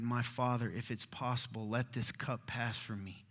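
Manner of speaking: soft, low plea to a father; hushed, heavy-hearted submission; praying. Acted. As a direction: pray it quietly, face down. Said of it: "and prayed".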